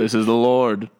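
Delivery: a hint of a booming Lord; mock voice of God. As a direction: announce yourself as the Lord. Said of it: "I'll play, um, God".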